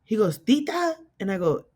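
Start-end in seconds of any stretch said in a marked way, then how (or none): 0.4-1.0 high-pitched questioning name; puzzled realisation. Retold or imitated. Dad learning who he called, puzzled realisation. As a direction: imitate someone suddenly unsure who's listening.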